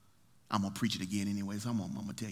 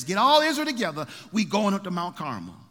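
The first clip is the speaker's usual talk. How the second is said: Elijah calling out; 7 semitones higher, 7 dB louder than usual. Acted. Preacher voicing Elijah calling people.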